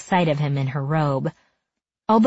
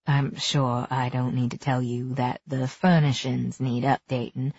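a hint of a lower, softer man; gently, a touch lower; lightly voiced man; 3 semitones lower, 3 dB quieter than usual.

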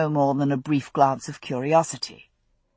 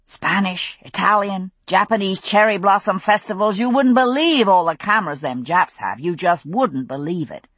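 a hint of a gabby food vendor; lightly voiced chatty vendor; 2 semitones higher than usual. Vendor explaining the fairs to customers, lightly chatty. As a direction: rattle it off like a chatty stallholder.

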